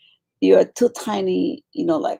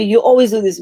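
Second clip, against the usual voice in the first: mock accusation; 5 dB louder, faster than usual. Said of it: "when you tell me".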